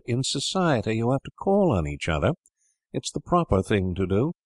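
a hint of a girl lecturing on manners; lightly voiced prim sister. Sister correcting her brothers, lightly voiced primness.

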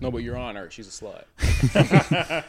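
whiny mock plea to the judge; hammed-up pleading, drawn out; whiny tv court complaint.

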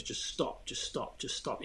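hushed whisper of an inner voice. Retold or imitated. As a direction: whisper it like a nagging thought. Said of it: "all my head was saying was".

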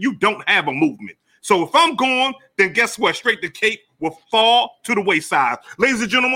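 wrestling promo. Acted. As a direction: build the promo to a peak. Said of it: "that was beautiful".

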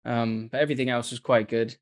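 put-on everyday British accent, casually retelling the day; understated British English; own British accent. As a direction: slip back into a British accent. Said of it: "I go back to the way I was raised".

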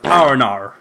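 "oh no" as Americans imitate Australians; mock Aussie accent. Mocking how people think Australians speak, mock Aussie accent. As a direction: put on a mock Aussie twang. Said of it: "people think that Australians say".

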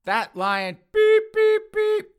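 high, loud, slow tirade; angry cursing. Acted. Son cursing about the lying doll, angry. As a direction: roar a string of censored swearing.

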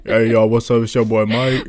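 lightly voiced African American Vernacular; African American accent. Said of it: "Mike, you gotta stop doing that".

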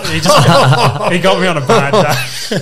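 laughing while talking. Real, not acted. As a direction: crack up while telling your own story. Laughing at his own confrontation story.

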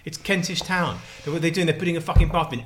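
ordinary talk, nothing marked

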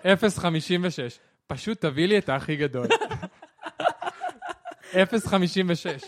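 reading through laughter. Real, not acted. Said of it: "תעשה ציטוט מדויק".

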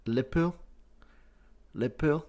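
"Liverpool" squashed fast to LIB-pool, the middle dropped; "Liverpool" said quickly as LIB-pool; Scouse "Liverpool" as LIB-pool; clipped Liverpool. Shown as a demonstration. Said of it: "almost like Lib, Pool".

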